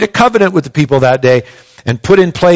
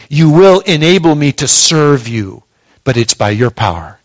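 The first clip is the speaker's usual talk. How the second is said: lower, hushed prayer of surrender; humble prayer; 3 semitones lower than usual. Shown as a demonstration. Pastor voices a believer kneeling before God, humbly. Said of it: "come to God and say".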